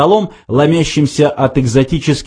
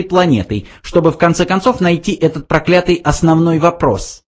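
high, lecturing mouse; 7 semitones higher than usual. A narrator's reading. Benjy explains the question to Arthur, high mouse voice. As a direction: explain it briskly.

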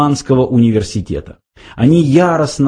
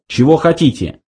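higher stern question; menacing; 5 semitones higher than usual. A narrator's reading. Lunkwill challenges the intruders, menacing. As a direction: demand it with mild threat. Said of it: "грозно спросил Ланквилл".

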